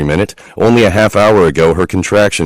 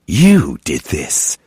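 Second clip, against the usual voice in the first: demonic growl; much slower than usual. A narrator's reading. Demonic accusation continues.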